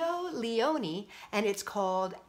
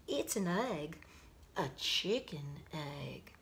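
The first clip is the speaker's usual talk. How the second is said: know-it-all frog; 6 semitones lower, 8 dB quieter, slower than usual. Acted.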